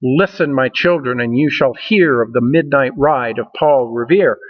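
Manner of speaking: recited with the beat of each line brought out; poetry recitation. Shown as a demonstration. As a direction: read it aloud so the rhythm carries. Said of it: "If you listen to the combination of those syllables".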